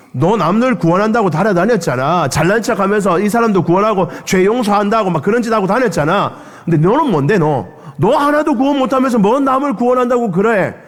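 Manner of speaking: rising into a high sneer; mock him, scornful and biting; jeering the man on the cross. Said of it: "사람들이 조롱했다는".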